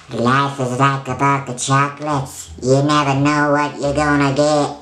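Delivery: squeaky voice after sucking helium; chipmunk-like helium squeak. Real, not acted. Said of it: "as my voice gets squeaky".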